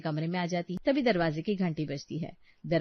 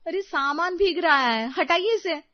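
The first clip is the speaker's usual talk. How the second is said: high, loud dismay; panicky, high-pitched exclamation; alarmed urging; 10 semitones higher, 5 dB louder than usual. Acted. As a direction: urge husband to move things at once. Wife urgently warns belongings getting wet.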